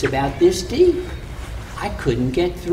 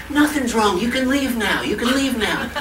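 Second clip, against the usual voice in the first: strained Anansi; 6 semitones higher than usual. Acted. Anansi hiding hot beans.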